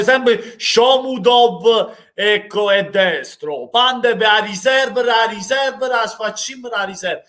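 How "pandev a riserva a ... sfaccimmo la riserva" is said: indignant shout. Real, not acted. Fan shouting about bench.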